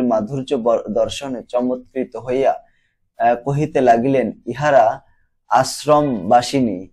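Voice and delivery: put-on slow, measured reading of old sadhu-style prose; unhurried literary recitation; formal reading. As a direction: read the classic passage aloud, slowly and deliberately. Reads sadhu passage aloud.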